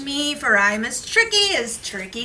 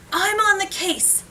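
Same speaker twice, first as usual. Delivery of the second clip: eager declaration; 9 semitones higher than usual. Acted. Gingerbread hero declares the chase.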